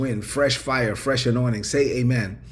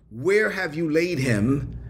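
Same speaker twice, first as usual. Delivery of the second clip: slow, drawn-out question with rising end; slow solemn question; slower than usual. Acted. Preacher voicing Jesus among the weeping mourners, slow solemn question. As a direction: ask it slowly, letting each word weigh.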